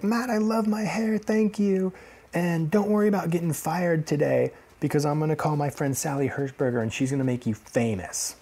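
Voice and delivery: high-pitched imitated stage voice; high comedian voice, easing down; comedian's shout-out. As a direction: call out to someone in the crowd, pitched high.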